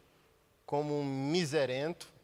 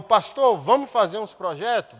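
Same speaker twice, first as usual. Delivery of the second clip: mechanic's eager question; 3 semitones higher, 10 dB louder than usual. Retold or imitated. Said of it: "E falou".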